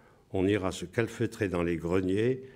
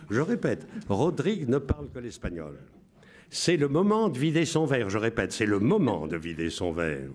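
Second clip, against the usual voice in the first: radio announcer voice. Shown as a demonstration. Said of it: "Je vous lis avec la voix".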